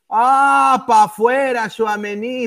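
yelling out at the miss; loud triumphant shout; excited shout. Real, not acted. Missed penalty, live reaction.

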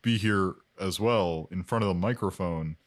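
lightly voiced guest character. Lowered put-on Mike voice.

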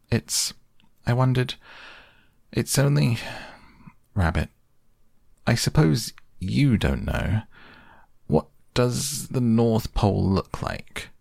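lightly voiced hesitant young boy. A narrator's reading. Shy question put to Rabbit.

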